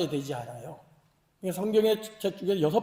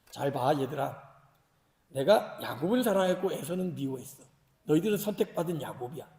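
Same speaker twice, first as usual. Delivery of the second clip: lower, gently explaining voice; God addressing children; 5 semitones lower, 3 dB quieter than usual. Acted. God telling chosen Jacob to look, patient and fatherly. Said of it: "하나님 뭐라고 얘기합니까".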